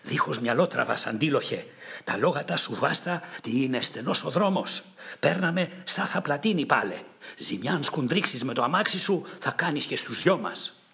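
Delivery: mildly frightened warning cry; fearful shout. Acted. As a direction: shout a warning, a touch of fear. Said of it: "φωνάζει φοβισμένος".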